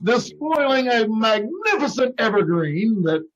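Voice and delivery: hammed-up oratorical indignation; theatrical protest with lingering emphasis; mock-dramatic. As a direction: declaim it like a stage tragedian, stretching key words. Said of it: "skip the dramatics there, Junior".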